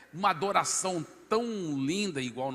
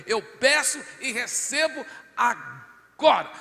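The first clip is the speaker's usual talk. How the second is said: louder, higher, slow prayer claim; slow, raised declaration of faith; fervent prayer; 8 semitones higher, 7 dB louder, slower than usual. Retold or imitated. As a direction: claim it aloud in prayer, slowly. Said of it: "eu falei".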